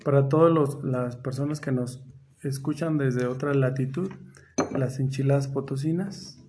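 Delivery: slow, low, soft narration of a curious fact; lightly put-on storyteller, measured and unhurried; storytelling. Host tells listeners how potosina enchiladas began, storytelling.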